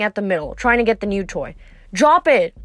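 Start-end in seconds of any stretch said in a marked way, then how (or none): 1.9-2.5 louder, higher dog command; firm order. A narrator's reading. Annabeth to Cerberus with the ball, ordering. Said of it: "Annabeth ordered".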